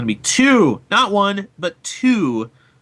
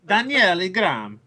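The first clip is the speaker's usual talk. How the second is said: Daniel Ingram rolled out with a mock Italian lilt; Italian accent; 4 semitones higher than usual. Shown as a demonstration. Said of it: "I just went Italian there".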